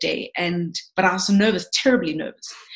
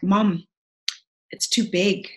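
tearful confession. Real, not acted. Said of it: "I've never spoken about this and cried".

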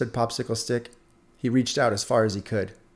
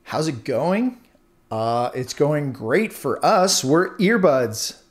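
slow, higher, showing-off drawl; boastful; 5 semitones higher, 4 dB louder, slower than usual. Acted. Earbuds brag to Popsicle Stick, smug and boastful. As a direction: lord it over the wooden stick. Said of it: "boasted the earbuds".

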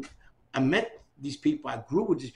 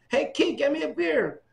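higher, louder offhand call; casual request; 11 semitones higher, 4 dB louder than usual. Retold or imitated. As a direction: toss an order to the kid. A singer by the pool.

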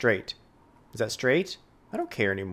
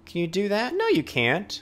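higher taunting at the game; 6 semitones higher than usual. Real, not acted. Player taunting the city game, higher. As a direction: needle the game.

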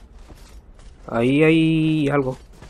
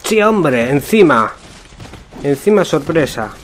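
frustrated shout; 2 semitones higher, 5 dB louder than usual. Real, not acted. Ambushed in game, frustrated outburst.

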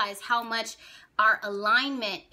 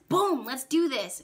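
gung-ho Jupiter; 3 semitones higher, 3 dB louder than usual. Acted. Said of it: "Jupiter says".

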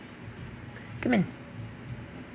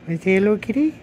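cooing to a scared pet; 4 semitones higher, much faster than usual. Real, not acted. Coaxing shy cat to come.

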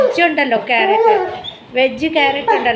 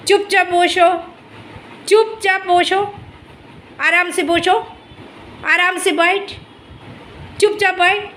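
coaxing command; 4 semitones higher than usual. Real, not acted. Coaxing dog in Hindi.

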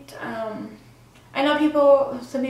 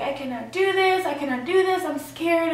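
a touch of frightened pleading, higher; retold panic; 5 semitones higher than usual. Telling the nurses and boyfriend she is scared, mild retold fear. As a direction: mildly replay the fear.

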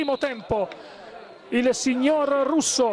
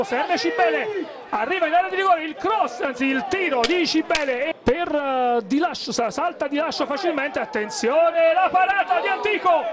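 excited commentary; 4 semitones higher than usual. Real, not acted. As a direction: build the tension as the shot comes. Attack on goal in live commentary.

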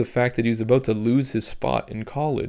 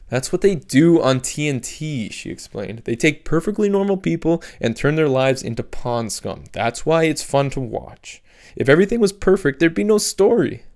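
lightly voiced higher teen girl, explaining; teen girl Sophie; 4 semitones higher than usual. Sophie explaining TV to Cap, lightly voiced condescending teen. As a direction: talk down to her like it's obvious.

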